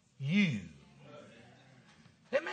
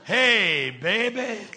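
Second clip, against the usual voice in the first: groovy talk; much slower than usual. Retold or imitated. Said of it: "We'd snap our fingers".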